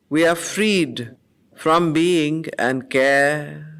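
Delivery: slow, lifted, solemn verse reading; poem recitation. Acted. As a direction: let every image hang in the silence. Reciting the canto aloud.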